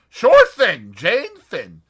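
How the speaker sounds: put-on a light American accent, straight to business. A narrator's reading. Julius voiced.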